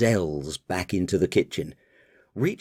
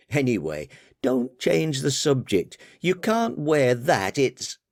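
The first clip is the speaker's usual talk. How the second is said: higher, exasperated daughter voice; 6 semitones higher than usual. Acted. Daughter chiding her father about the party, higher voice. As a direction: scold Dad for never listening, higher.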